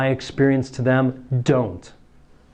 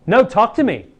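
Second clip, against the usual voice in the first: loud, pushy, higher pleading; mock insistent breakup plea; pleading partner; 8 semitones higher, 5 dB louder than usual. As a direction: demand the ex open up. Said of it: "when you break up with someone".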